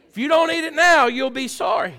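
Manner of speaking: high, loud imitation of a nagging mother; hammed-up motherly threat; mom's scolding threat. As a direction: holler the warning, pitched high. Mom's threat acted out again.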